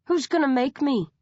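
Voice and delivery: cocky growled dare. A narrator's reading. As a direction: square up and dare her. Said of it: "Rage growls".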